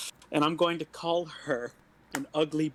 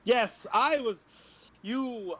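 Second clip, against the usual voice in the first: flustered high voice; 9 semitones higher, 5 dB louder, much slower than usual. Acted. Player flusters in disguise.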